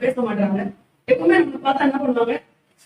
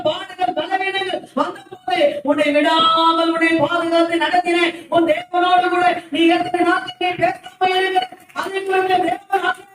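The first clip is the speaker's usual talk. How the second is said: impassioned preaching. Real, not acted. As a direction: press each phrase home like a fervent preacher. Preacher builds to impassioned exhortation.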